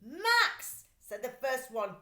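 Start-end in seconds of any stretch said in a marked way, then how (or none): 0.0-0.8 much higher, louder alarmed call; startled thief. Acted. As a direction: jump at the yell.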